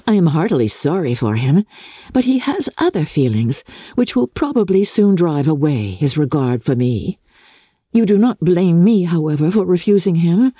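a lightly voiced lively young woman; hint of a spirited sister; Elizabeth's voice. Elizabeth answers Jane.

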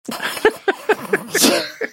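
high, quiet giggling laugh; helpless laughter after the joke; breathless high giggle. Real, not acted. Laughing at own impression.

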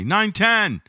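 retold testy correction; imitated short temper. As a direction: snap it like an irritated friend. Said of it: "He had, like, some temper".

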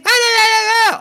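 very high, loud shrieking howl. Retold or imitated. Great grandmother answers mom, high shrieking howls. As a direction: shriek it like an ancient banshee. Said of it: "a bunch of high-pitched howls and shrieks".

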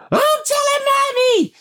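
put-on high kid's yell tattling; child yelling. Dad voicing his son tattling to mom. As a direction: shout it like a little kid running to tell.

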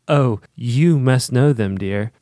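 put-on low, slow, gentle old lady reading; lightly voiced kindly old woman. Reading Mrs Watson comforting the children, lightly voiced.

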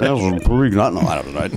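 lightly voiced drunk sportscaster; Ross Porter. Host tries Puig in the bit, drunk announcer voice. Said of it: "a Ross Porter impression".

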